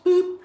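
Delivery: a squeaky high-pitched boop, like a cartoon button. Host booping playfully at the viewer, squeaky high boop. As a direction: pop it out high and bright. Playful sound effect in intro.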